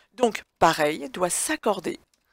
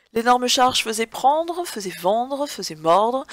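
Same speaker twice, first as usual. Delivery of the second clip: "prendre", "vendre", "mordre" each stressed; stressed infinitives; 4 semitones higher, slower than usual. Shown as a demonstration. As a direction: hit each infinitive clearly. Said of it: "examples of verb plus infinitive".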